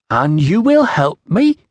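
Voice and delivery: put-on slow, high Iceni-accented question; foreign Iceni accent. A narrator's reading. Iceni woman asks a Roman official for help, foreign accent. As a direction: ask for help slowly, in a tribal British accent. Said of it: "trouble following your accent".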